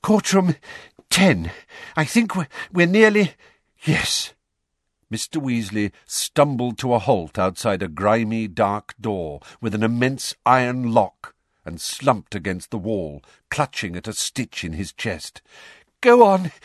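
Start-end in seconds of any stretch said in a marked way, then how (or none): 0.0-4.3 louder, gasping arrival; out of breath. A narrator's reading. Mr Weasley reaching the courtroom door, gasping. 16.0-16.5 high, much louder gasping push; panting urge. A narrator's reading. Mr Weasley sending Harry in, panting hard. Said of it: "he panted".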